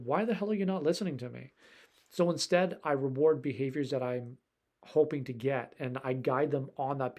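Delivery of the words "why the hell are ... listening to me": fast, mildly exasperated; frustrated owner. Retold or imitated. Owner losing patience with the dog, mildly exasperated. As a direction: vent a little frustration quickly. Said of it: "it gets you overwhelmed".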